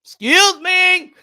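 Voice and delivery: "excuse me" stretched slow, high and loud; hammed-up slow, high "excuse me"; drawn-out high excuse me. New Yorker brushing past strangers, mock high drawn-out excuse. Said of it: "See, like".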